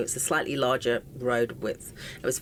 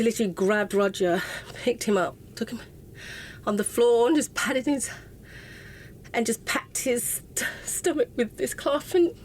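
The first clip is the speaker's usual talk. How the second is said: tearful; 7 semitones higher than usual. Real, not acted. Tearful retelling of the wound.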